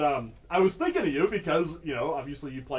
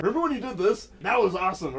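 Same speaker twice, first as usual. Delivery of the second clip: higher-pitched gushing fan question; Chris Farley fan interviewer; 5 semitones higher, 4 dB louder, faster than usual. Acted. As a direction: lightly imitate an over-eager celebrity interviewer. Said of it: "I feel like I could do that with you".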